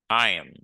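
"I am" merged into I'm; contracted form. Shown as a demonstration. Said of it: "la forme contractée".

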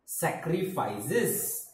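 sacrifices said slowly and clearly, sak-ri-fy-ses; unhurried teacher reading of sacrifices; slow model pronunciation. Shown as a demonstration. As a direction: draw out sacrifices for the class to copy. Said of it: "Next word is".

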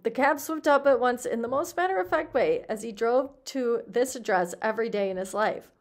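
animated read-aloud with leaning stresses; expressive story reading. A narrator's reading. Teacher reading a story to the class, expressive narration. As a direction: read it out with lively emphasis.

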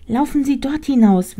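high, small directing rat voice. Acted. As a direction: point the way as a tiny rat. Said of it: "wies die Ratte ihr den Weg".

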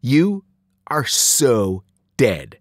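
loud, slow, word-by-word threat; heavy pauses between words; called-out threat. A narrator's reading. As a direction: spell out the threat with relish. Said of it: "Sloan called".

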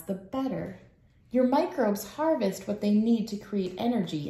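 lively picture-book read-aloud; reading to children. Acted. Teacher reading a picture book aloud to her class. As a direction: read it like a storybook for little kids.

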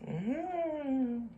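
chewing while humming; mouth full. Real, not acted. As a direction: mmm through closed lips. Seen 1: Lips closed, cheeks working after slurping noodles at -5 s.

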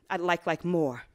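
low, hushed, fading to "please"; soft tender plea. Acted. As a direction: ask gently, almost under your breath at the end. Closing tender reply to lover.

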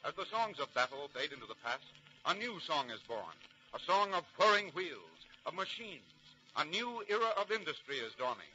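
steady, stately narrator reading history; documentary narration. A narrator's reading. Narrator introducing the railroad era to listeners, stately documentary read. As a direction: announce the new era like a newsreel.

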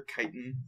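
chitin with a hard k, KY-tin; corrected pronunciation. Real, not acted. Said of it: "I keep forgetting it's chitin".

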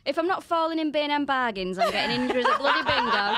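loud, high comic rant; jokey indignation. Real, not acted. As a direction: protest at full volume, half laughing. Mock outrage at the bingo guess.

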